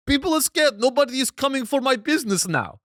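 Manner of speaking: high, loud imitation of an Arab street vendor; mock Arab accent. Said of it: "do the Arab accent".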